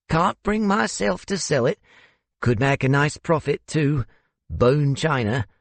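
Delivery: put-on high-pitched, sentimental older man; South African host confiding. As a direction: speak fondly of your handmade china, pitched high.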